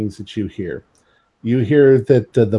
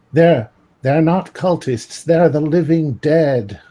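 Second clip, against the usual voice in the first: put-on Cockney accent; 3 semitones higher than usual. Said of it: "I have a, like, a Cockney accent".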